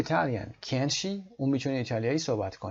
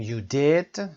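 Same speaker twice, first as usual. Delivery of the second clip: "did" lifted up and louder; surprised you did; 2 semitones higher, 4 dB louder than usual. Shown as a demonstration. Teacher showing surprise with a raised "did". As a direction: push "did" up to show surprise.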